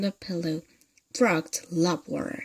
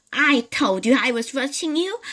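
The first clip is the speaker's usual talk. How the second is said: higher, louder witchy cackle of a voice; cackling hag; 5 semitones higher, 5 dB louder than usual. Acted. Mrs Twit gloating at her husband, witchy cackle. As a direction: gloat like a nasty old witch. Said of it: "cackled Missus Twit".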